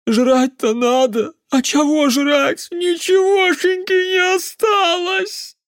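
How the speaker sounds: put-on very high, loud, whiny drunken lament; tearful drunk peasant. A narrator's reading. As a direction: howl over the lost potatoes, near tears.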